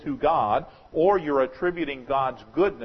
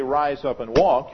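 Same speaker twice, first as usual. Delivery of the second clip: loud command; 6 dB louder, slower than usual. Shown as a demonstration. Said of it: "But when I say".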